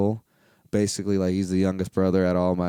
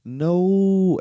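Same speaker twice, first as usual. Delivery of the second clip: flat refusal; 10 semitones higher, 6 dB louder than usual. Retold or imitated. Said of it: "I'm just like".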